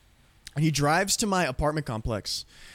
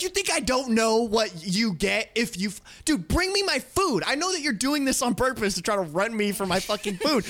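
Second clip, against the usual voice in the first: retold yelling; 5 semitones higher than usual. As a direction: re-enact yelling at a delivery driver. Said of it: "now I'm yelling at him".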